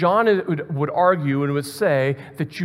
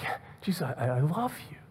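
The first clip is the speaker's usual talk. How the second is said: hushed, hesitant reassurance; very softly, almost under the breath; intimate reply; 10 dB quieter, faster than usual. Acted. Peter answering Jesus once more, hushed and intimate. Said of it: "this very intimate conversation".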